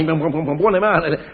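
stuck on the first syllable; a boss who keeps stammering; stuttering. Acted. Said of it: "quando parla si inceppa e cacaglia".

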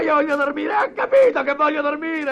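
fed up with the chatter; annoyed. Acted. Woken passenger snapping at the pest.

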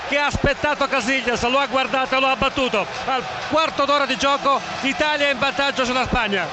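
high, excited goal recap; breathless italian goal commentary. Acted. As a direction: keep the excitement after the goal.

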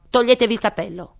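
loud, quick royal order; loud fast king command. Acted. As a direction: snap the order out. King's voice. (ordine regale rapido)

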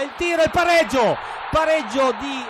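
high, loud goal shout; breathless italian goal commentary. Real, not acted. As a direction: scream the equaliser. Equaliser goal call.

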